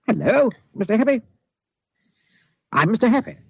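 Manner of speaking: lightly voiced cheerful fat man; cheery greeting. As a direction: greet him like a jolly neighbour. Mister Happy greets brightly.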